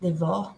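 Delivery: Devore said the French way, final R barely sounded; French pronunciation. Shown as a demonstration. French co-host showing how the surname goes, French pronunciation. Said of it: "the way we say it in French".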